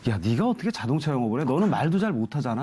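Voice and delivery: retold fatherly disbelief, livelier and rising; incredulous father. Father objecting to his singer son selling cars, retold incredulity. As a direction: imitate a doubting dad, half scolding. Retelling father doubting son's sales job.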